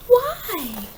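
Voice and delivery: small high-pitched why; child asking why; simple question. Acted. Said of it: "took a deep breath and simply asked".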